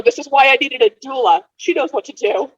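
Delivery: exasperated yell, only half acted out; retold yell. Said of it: "I yelled at him".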